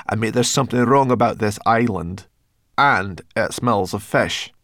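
lightly voiced wary companion; wary Sorrel character. Sorrel speaking in dialogue.

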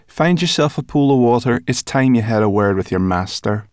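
high, loud chirpy brownie; high brownie voice, talking with her mouth full. Acted. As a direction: pitch her up into a bright little creature. Sorrel voiced.

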